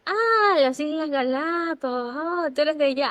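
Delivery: high, sudden "ah" of recognition, imitating an American; playful impression of the penny dropping; mock dawning surprise. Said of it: "Él les decía".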